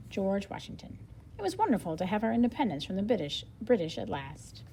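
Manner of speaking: lively storybook read with a light reporter and Paul voice; reading aloud to children. Acted. Teacher reading the interview aloud to her class, lively storybook style. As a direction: read it brightly so young listeners follow. Reads book dialogue aloud.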